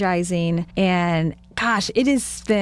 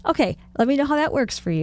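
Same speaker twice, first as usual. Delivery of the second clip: higher, quick, nice-sounding reply; nicely humoring someone, pitched up; sweetly doubtful; 6 semitones higher, faster than usual. Retold or imitated. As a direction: imitate a friend being politely sceptical. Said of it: "you looked at me so nicely".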